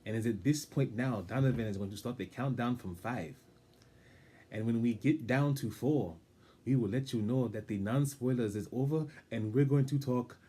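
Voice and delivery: stiff, stately show-host voice; formal announcer voice. Pretend. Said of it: "I will keep this voice just for this one part".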